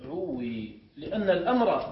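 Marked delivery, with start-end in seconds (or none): 0.0-0.8 ادعوي broken up as ud-ʕu-wii, low and soft; separated syllables, ud-ʕu-wii for ادعوي; underlying form. Shown as a demonstration. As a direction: sound out the waw in ادعوي, ud-ʕu-wii. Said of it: "الأصل".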